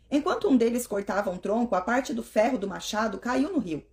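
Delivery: lively scripture reading aloud; Bible reading. Acted. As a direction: read the story with energy. Reads Bible chapter aloud.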